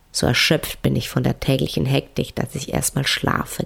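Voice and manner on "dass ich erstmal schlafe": sleepy whisper, drifting off. Pretend. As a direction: let it fade into sleep. Describing deep sleep.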